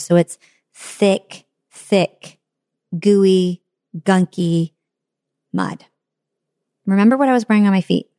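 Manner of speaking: normal talking voice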